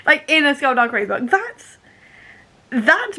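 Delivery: half laughing, half crying; laughing near tears. Real, not acted. Telling viewers about the surprise book reference, laughing tearfully. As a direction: giggle through welling tears.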